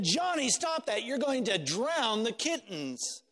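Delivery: hammed-up mother shouting from the window; mother scolding. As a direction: call out to stop the boy.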